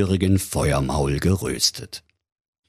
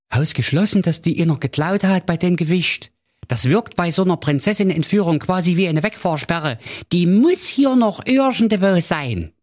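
higher, dry comic servant voice; hunchbacked valet; 11 semitones higher than usual. Acted. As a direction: calmly explain it away like a cheeky servant. Valet answers the king.

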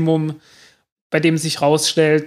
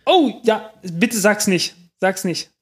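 aufgeregt; 4 semitones higher than usual. Real, not acted. Landung live, höchste Spannung.

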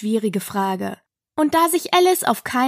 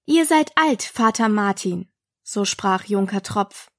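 poem. Acted. Alice begins reciting the poem.

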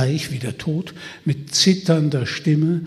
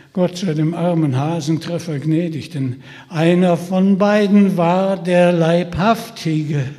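ominous solemn voice; 3 semitones higher, 6 dB louder than usual. Acted. Solemn ominous end line.

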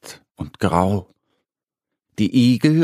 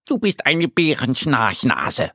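annoyed; 3 semitones higher than usual. Acted. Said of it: "sagt Annie genervt".

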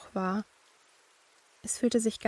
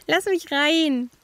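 put-on high, loud, slow little girl through a door; teasing ghost child begging entry; young girl voice; 7 semitones higher, 8 dB louder, slower than usual. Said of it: "das lachend sagte".

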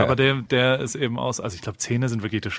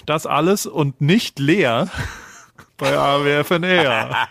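clickbait video narrator; 2 semitones higher than usual. Acted. Teaser intro, dramatic slow ending.

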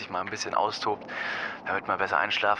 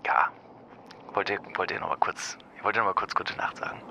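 whispering. Acted. Late-night goodnight whisper.

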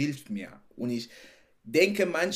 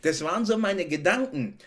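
laughing; 4 semitones higher, 4 dB louder than usual. Real, not acted. Laughing repeat of line.

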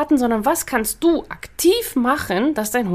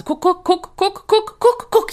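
rising ever higher, frantic guck guck guck; anxious owner calling; 9 semitones higher, 3 dB louder, slower than usual. Retold or imitated. Handler imitating a nervous owner watching the dog, rising frantic calls. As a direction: climb in pitch with each guck, getting more and more worked up.

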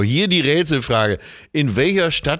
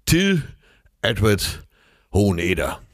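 grand show announcer intro; announcer flourish. Acted. Announcing co-host with gravelly flourish.

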